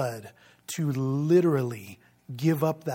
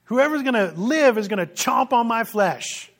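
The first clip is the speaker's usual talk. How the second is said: emphatic paraphrase; 6 semitones higher, 6 dB louder than usual. Retold or imitated. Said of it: "Jesus says".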